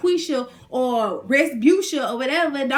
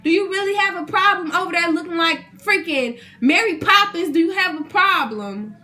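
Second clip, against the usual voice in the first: sassy retort; 3 semitones higher than usual. Retold or imitated. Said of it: "I'm like".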